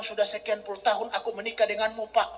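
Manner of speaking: a hint of a puzzled wife. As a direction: softly wonder at her husband. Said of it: "Nyonya bilang".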